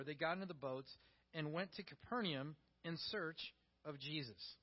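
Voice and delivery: measured Bible reading voice; scripture reading. Acted. Preacher reading scripture to the church, steady reading voice. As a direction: read the passage aloud to the congregation. Reads scripture passage aloud.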